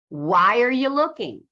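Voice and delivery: "why are you looking" run together as why-er-ya lookin; contracted casual speech. Shown as a demonstration. Teacher demonstrating real spoken English, contracted "why are you looking". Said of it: "We say this".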